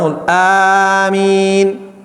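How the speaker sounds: moderately held amen, no tune; proper amen. Shown as a demonstration. Teacher modelling the amen after the imam. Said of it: "قال الإمام الضالين".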